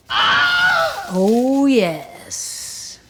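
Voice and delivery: high delighted squeal of oh; excited oh. Real, not acted. Hearing the pan sizzle, a high thrilled oh.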